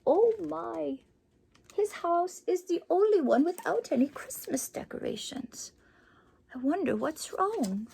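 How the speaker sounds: put-on soft, breathy aside to the kids; hushed worried gasp.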